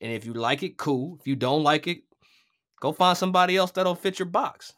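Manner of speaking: declaring his independence to the networks, defiant. Retold or imitated. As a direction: say it like you've stopped caring what they think. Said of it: "I was like".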